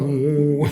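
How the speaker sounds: low droning "woo" noise; imitated heat hum. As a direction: mimic the hum of blazing heat. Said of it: "you can hear the heat".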